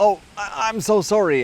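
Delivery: high, slow, flustered nervous stammering. Retelling own past reaction to angry strangers: imitating own nervous apology. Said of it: "And I would get really nervous".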